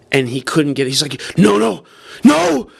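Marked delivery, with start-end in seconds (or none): 1.4-2.7 high, loud panicked yelling of no; panicked cry of no. Retold or imitated. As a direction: yell no in rising panic over the lost clip. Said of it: "And he's just freaking out".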